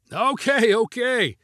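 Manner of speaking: high excited okay with a laugh; laughing cry. A narrator's reading. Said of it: "cried Paul with a laugh".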